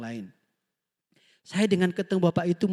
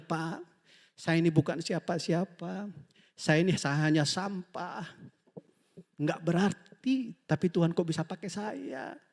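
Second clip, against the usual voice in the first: tearful humble pastor; 6 dB quieter than usual. Retold or imitated. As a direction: quietly say it as a humbled old man holding back tears. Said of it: "Langsung nangis dia".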